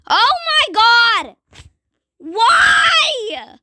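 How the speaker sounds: panicked high shout; scared horror game streamer. Real, not acted. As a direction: cry out in terror. Zombies coming after him.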